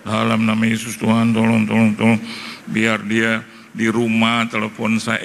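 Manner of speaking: lightly acted, insistent prayer; mock-earnest prayer for help; retold pleading prayer. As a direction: pray urgently, repeating the plea. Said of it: "tapi itu saya doain itu orang".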